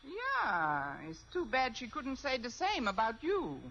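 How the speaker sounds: fake German accent. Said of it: "If I can do a decent German accent".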